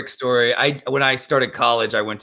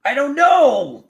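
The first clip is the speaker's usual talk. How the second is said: much higher, slow, louder excited shout; excited yell; 11 semitones higher, 3 dB louder, slower than usual. Real, not acted. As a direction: stretch it out with delight. Excited reveal of mailbox haul.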